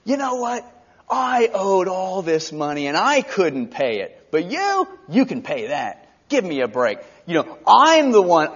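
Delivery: a hint of a bitter servant; resentful servant. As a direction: scoff at him, you owe nothing. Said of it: "this is probably his attitude".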